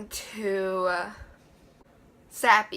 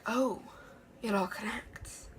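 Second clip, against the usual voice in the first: awed whisper; 8 dB quieter than usual. Pretend. Mock realization of reader.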